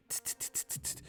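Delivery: quick, soft tongue-clicked rattle; rattlesnake rattle. Retold or imitated. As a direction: imitate a rattler's warning ticks. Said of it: "You know how rattlesnakes".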